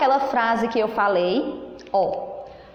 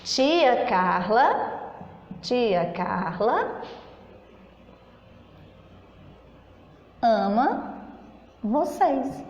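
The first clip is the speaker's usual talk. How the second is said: slow demo reading; 2 semitones lower, 4 dB quieter, much slower than usual. Shown as a demonstration. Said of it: "A tia falou assim para vocês".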